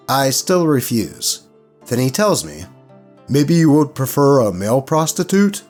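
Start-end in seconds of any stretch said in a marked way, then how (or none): 3.3-5.6 lightly voiced game master making an offer; quoted game master, probing with a rising question; suggesting game master.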